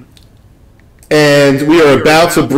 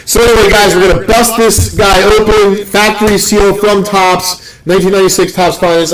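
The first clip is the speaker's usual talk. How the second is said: higher-pitched hype announcement to the viewers; excited loud hype; 4 semitones higher than usual. Real, not acted. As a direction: pump up the crowd for the box opening. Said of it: "it's fun to scream".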